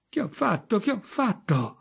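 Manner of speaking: frantic, voice climbing; panicked. Acted. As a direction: cry it out as panic takes over. Repeated in growing panic.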